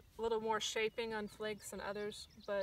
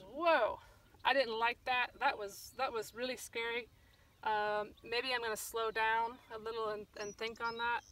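startled dog thinking. Retold or imitated. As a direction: voice the dog's shock, then settle into thinking it over. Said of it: "the dog goes".

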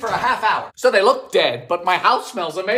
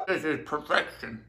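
laughing; 6 semitones lower, 11 dB quieter than usual. Real, not acted. Laughing after tasting.

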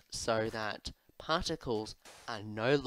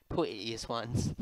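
put-on slow, playful British accent; slower than usual. Player repeats the words to show off a slow British accent. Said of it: "That's my British accent".

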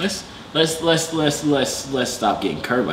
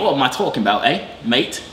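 put-on English accent. Correcting himself after accent slipped, put-on English accent. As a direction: fake English accent, hammed up. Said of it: "your accent come out now".

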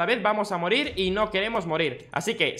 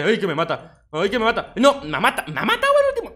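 rising cries, peaking much higher and louder; panicked yelling; 3 semitones higher, 4 dB louder than usual. Real, not acted. Gamer crying out as the last zombie kills him. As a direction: yelp as the zombie finishes you off.

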